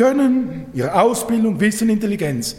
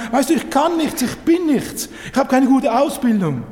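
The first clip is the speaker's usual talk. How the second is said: higher, plaintive voice of someone putting themselves down; self-deprecating whine; 4 semitones higher than usual. Retold or imitated. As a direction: mimic a self-pitying believer. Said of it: "die sich niedermachen und sagen". (wehleidig nachgeahmt, höher)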